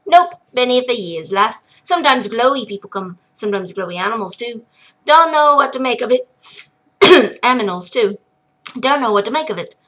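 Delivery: lightly voiced rough brogue, boastful; a proud hermit bragging of his armor; gruff old dwarf. Old miner boasting to the girl, gruff brogue. Munchin explains himself.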